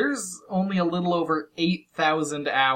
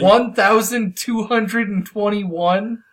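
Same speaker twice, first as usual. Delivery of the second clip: incredulous; 4 semitones higher, 3 dB louder, much slower than usual. Real, not acted. Incredulous echo of level number.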